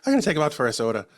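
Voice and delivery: quick imitated Irish guide; brisk mock-Irish tour guide; Irish accent. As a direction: rattle it off in a put-on Irish accent. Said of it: "He's this Irish guy".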